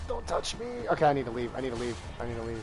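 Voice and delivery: quick panicked breaths between words; hyperventilating. Real, not acted. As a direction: gasp the words out in a rush. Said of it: "I'm panicking".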